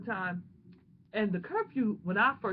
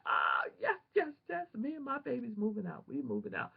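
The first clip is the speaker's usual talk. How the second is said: joyful shout; 3 semitones higher than usual. Retold or imitated. Reading the acceptance letter, shouting and crying with joy. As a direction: burst out like the answer to a prayer.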